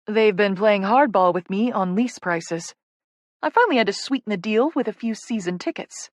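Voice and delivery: lightly voiced, friendly office manager; businesslike Vicky. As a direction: give brisk updates to a newcomer, lightly in character.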